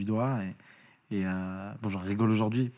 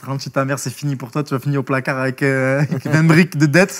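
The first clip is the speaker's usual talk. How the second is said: mocking sign; 2 semitones higher, 7 dB louder than usual. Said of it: "avec une pancarte".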